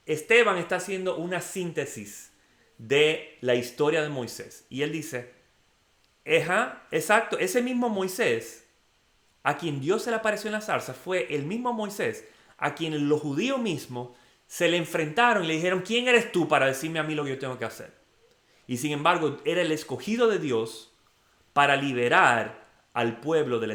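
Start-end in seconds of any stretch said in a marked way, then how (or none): 6.3-17.9 emphatic retelling. Retold or imitated. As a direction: retell Esteban's case with rising excitement. Voicing Esteban's emphatic retelling.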